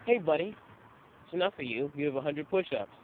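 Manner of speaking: mock yell, loudest on "Hey, buddy"; retold coach yell. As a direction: imitate the coach barking at a latecomer. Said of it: "he yelled at me".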